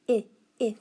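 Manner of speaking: "I" as short "ih", as in inch; isolated short vowel. Shown as a demonstration. Teacher asking about a vowel, "I" said as short "ih". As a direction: say "I" as a brief "ih", not "eye". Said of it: "I sound, like inch?".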